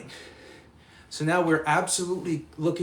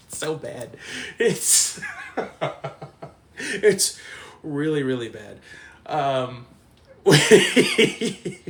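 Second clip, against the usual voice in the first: helpless laughter; 2 semitones higher, 4 dB louder, much slower than usual. Real, not acted. Recalling Jimmy's cheeseburger stunt, laughing helplessly. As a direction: crack up remembering.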